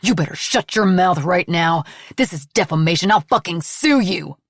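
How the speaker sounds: seething threat of a lawsuit; angry threat. Acted. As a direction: threaten her to back off. Ned threatens after accusation.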